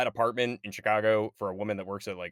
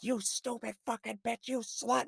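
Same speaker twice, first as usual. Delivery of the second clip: Chucky snapping; 12 semitones higher, 5 dB quieter than usual. Retold or imitated. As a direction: spit insults like an enraged doll. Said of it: "The first moment where Chucky snaps".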